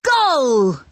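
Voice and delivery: triumphant call; calling goal. A narrator's reading. Danny cheers his goal to everyone. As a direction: cheer the score. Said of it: "calls Danny".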